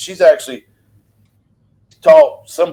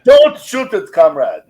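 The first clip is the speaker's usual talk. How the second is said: bad Russian accent; 2 semitones higher, 4 dB louder, slower than usual. Joking with friends, a bad Russian accent. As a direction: ham up a clumsy Russian accent, half joking. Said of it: "that was real bad Russian".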